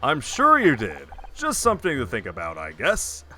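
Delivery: punchy announcer voice; sportscast announcer. Acted. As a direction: read it like a game-show host. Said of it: "like a sportscast announcer".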